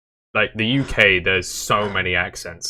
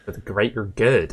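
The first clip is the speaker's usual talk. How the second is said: mock West Country village chant; solemn mock West Country accent; Hot Fuzz villager. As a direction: intone it in a West Country burr. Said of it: "Hot Fuzz".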